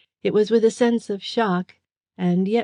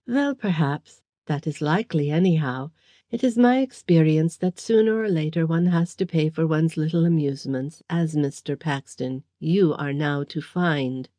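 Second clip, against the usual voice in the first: mock sympathy. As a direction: pity him with a faint sneer. Villain sneer.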